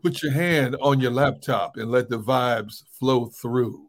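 a lightly voiced R&B DJ, slowed down; R&B radio DJ voice. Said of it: "your R and B radio D J voice".

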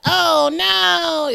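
squeaky high-pitched "oh no"; high mock cry. Mock reaction in retold memory.

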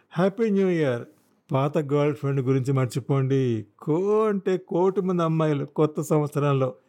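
a hint of a carefree, chummy lad; cheery young biker. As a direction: toss out breezy New Year consolation. Voices the cheery young motorcyclist.

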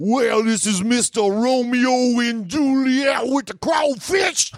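very high shouted announcement, ending in a squeal; mocking shout. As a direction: announce the stranger mockingly at the top of your voice.

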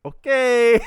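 high, loud exasperated okay; a strained okay, done with it; awkward okay. Retold or imitated. Homeowner stuck with an overstaying kid, loud strained okay. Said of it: "them going like".

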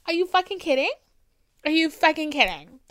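incensed rhetorical shout; outraged exclamation. Real, not acted. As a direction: throw it out in real disbelief. Outraged at father's abandonment.

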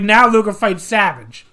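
self-admittedly bad Boston accent; mock Boston accent. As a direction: ham up a Taskmaster quote in a rough Boston accent. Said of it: "I can't do a Boston accent".

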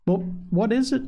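encouraging. A narrator's reading. Minister drawing out shy Polly, lightly encouraging. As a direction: coax it out of her kindly. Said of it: "asked the minister encouragingly".

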